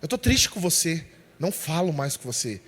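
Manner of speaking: low, subdued sulking father; understated wounded withdrawal; mock sad. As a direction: imitate a sulk, pitched low and soft. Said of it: "Pra mostrar que tava triste".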